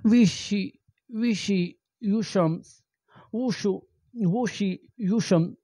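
ordinary delivery

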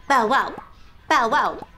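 punchy bow-wows; dog bark. Pretend. Host hints she is a dog, playful bow-wow barking. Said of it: "I'm barking".

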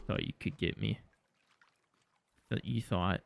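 hushed taunt, barely voiced; whispered smug taunt. Real, not acted. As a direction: breathe it like a secret gloat. Taunting the game quietly.

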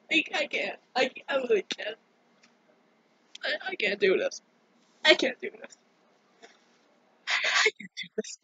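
soft, faltering, close to sobbing; small, defeated voice; overwhelmed, tearful. Real, not acted. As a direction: stammer it weakly through tears. Overwhelmed, breaking down in tears.

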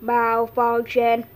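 slow, lightly voiced robot glitch; a hint of a broken machine. Robot electrocuted by liquid.

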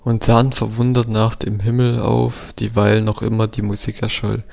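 measured, even poetry reading; poem recitation. Acted. Let's Player reading a found poem aloud, measured recitation. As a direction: read the verse out steadily, phrase by phrase.

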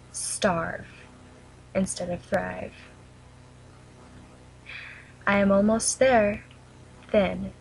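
measured poem reading with long pauses between lines; poem recitation. Real, not acted. Reading her own poem about an eating disorder to viewers, solemn recitation.

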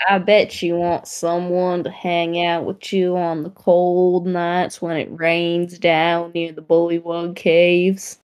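slowing into a put-on Italian accent; attempted Italian accent. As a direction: wobbly try at an Italian accent. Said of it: "I lost my Italian accent".

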